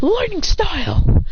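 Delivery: high, drawn-out attack call; technique call. Acted. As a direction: stretch the move's name in a high voice. Fighter calls out his technique.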